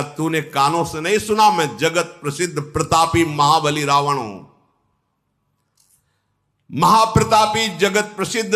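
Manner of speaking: lightly acted scornful king, rising in indignation; Ravan's indignant boasting. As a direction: declaim the outrage, then settle into contempt. (Ravan का हल्का अभिनीत घमंडी तिरस्कार)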